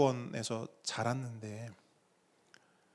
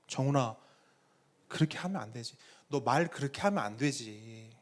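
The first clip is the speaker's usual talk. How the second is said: gentle reproof; 3 semitones lower, 4 dB quieter than usual. Retold or imitated. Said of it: "제가 직접 하나님께 훈육받은".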